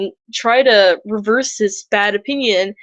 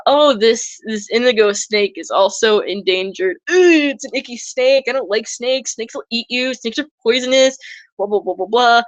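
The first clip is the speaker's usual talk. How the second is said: lightly voiced, mock squeamish disdain for snakes; a hint of a squeamish visitor brushing snakes off. The public dismissing the endangered indigo snake, lightly mocked squeamishness. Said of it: "they're going".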